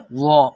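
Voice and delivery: وا heavy and rounded, with no whistle; thick full sound. Shown as a demonstration. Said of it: "اس کو موٹا پڑھنا ہے". (موٹی، بغیر سیٹی کی آواز)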